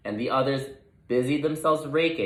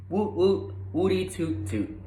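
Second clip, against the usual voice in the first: playful cheer; 6 semitones higher than usual. Acted. Pupils cheering.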